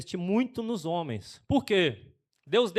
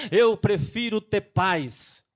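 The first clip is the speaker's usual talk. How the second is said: mocking quote; 2 semitones higher, 5 dB louder, much slower than usual. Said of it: "Para com esse discurso".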